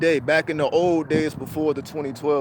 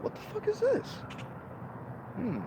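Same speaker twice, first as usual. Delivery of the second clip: squeaky disbelieving squeal, much higher; shocked; 11 dB quieter than usual. Retold or imitated. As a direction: yelp it in disbelief. Shocked reaction retold.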